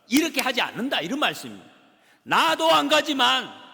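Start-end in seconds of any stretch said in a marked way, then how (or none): 2.2-3.7 loud, high and slow, hammered out; preaching shout. Acted. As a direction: call it out from the pulpit. Preacher's peak exhortation.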